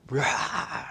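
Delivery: wordless mock snarl of rage; devil's roar. Sergeant became a devil over lateness, mock roaring. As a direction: roar like someone coming unglued. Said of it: "He became a devil".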